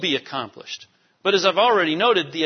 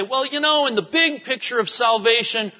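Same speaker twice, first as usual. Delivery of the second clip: higher, mildly mocking voice of doubters; mocking skeptics; 5 semitones higher than usual. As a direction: send up the skeptics lightly. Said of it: "sometimes people say".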